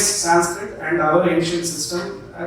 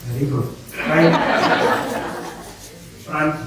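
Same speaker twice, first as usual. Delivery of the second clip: calling out movements; 3 semitones lower, 3 dB quieter, slower than usual. Shown as a demonstration. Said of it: "let's try this one last time".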